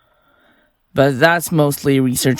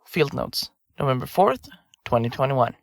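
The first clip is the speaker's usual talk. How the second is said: dictating field notes; 3 semitones lower, 7 dB quieter than usual. Acted.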